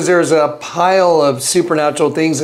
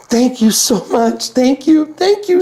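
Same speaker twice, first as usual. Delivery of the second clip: higher, sweet gushing thanks; grateful woman; 6 semitones higher than usual. Retold or imitated. The freed woman thanking him, high sweet gushing. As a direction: gush your thanks.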